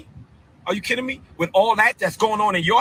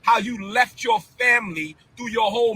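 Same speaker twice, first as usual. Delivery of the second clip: angry shout; 3 semitones higher than usual. Real, not acted. Confronting the archbishop.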